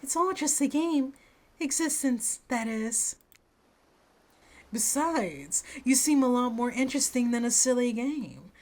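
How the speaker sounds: Huntress laying it on thick. Acted. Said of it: "she's laying it on thick".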